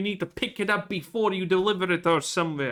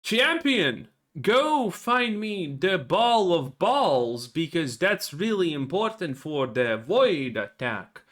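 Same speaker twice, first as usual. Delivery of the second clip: slow, grand mock quest-giver voice; hammy NPC handing out a quest; slower than usual. Gamer mocking a quest giver, in a slow pompous voice. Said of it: "every quest is like this".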